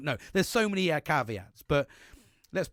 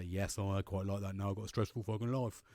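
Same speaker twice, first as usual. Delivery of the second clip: mock contented loner; 4 semitones lower, 3 dB quieter than usual. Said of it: "there's people that say".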